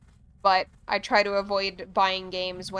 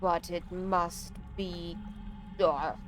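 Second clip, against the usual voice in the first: slow, solemn tree person voice; drawn-out ancient tree speaking gravely; Onu; much slower than usual. Acted. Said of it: "I am slowing down Onu's dialogue".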